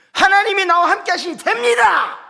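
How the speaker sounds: high, loud shout of faith; shouted preaching. Retold or imitated. Pastor re-enacting his sermon to few believers, shouting. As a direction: cry it out to the whole church. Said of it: "이렇게 설교를 했다니까요".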